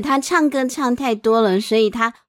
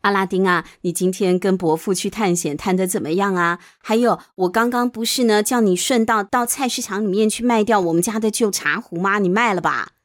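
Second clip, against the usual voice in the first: a mum checking on her son; mother voice; 5 semitones lower than usual. Acted. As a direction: lower gentle mother asking. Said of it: "妈妈就问啦".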